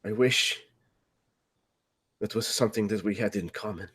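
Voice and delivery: soft, drained bitterness; hurt, quiet reply. Acted. Son answering his father about being forgotten, soft and hurt. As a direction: drop your volume after the outburst.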